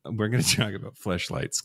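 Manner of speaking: coy and a little shy. Real, not acted. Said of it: "why do you sound so coy about that?".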